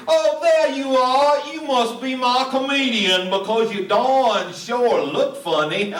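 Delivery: a mild Alabama drawl, called across a lobby; southern accent. Retold or imitated. Activities director greets the comedian across the lobby, in a light southern accent. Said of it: "She had such a heavy southern accent".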